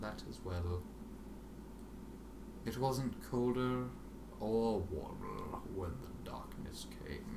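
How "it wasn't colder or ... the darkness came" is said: slow, soft, fading to whisper; hushed narration. A narrator's reading. Narrator describing Dash dying, slow fading whisper. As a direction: let it fade into darkness. Dark ending read hushed.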